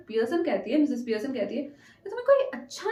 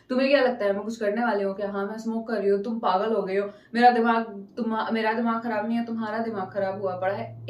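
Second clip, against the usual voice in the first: savage retort; 3 semitones lower, faster than usual. Retold or imitated. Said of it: "ऐसे वाला character अगर अचानक से".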